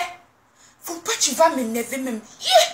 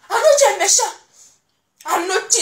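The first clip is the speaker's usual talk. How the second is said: whining; 5 semitones higher, faster than usual. Acted. Whining complaint to husband.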